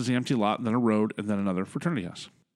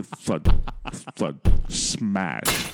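slow, spaced percussive thuds, then a smash; imitated impacts; 3 semitones lower, 4 dB louder, much slower than usual. Storyteller imitating potatoes hitting a window, percussive impacts. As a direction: act out each hit landing.

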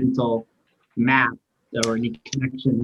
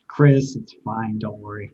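gently reassuring; 3 semitones lower, slower than usual. Acted. Player comforting trapped Chris, gently reassuring.

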